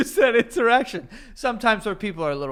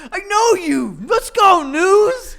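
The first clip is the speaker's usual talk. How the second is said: high, loud mock cheering; rowdy imitation of a friend yelling; imitated scream; 7 semitones higher, 7 dB louder, slower than usual. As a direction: holler like an overhyped fan. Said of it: "pointed in his face and screamed".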